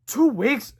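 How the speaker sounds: high questioning rise; inquisitive. A narrator's reading. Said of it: "said Harold inquisitively".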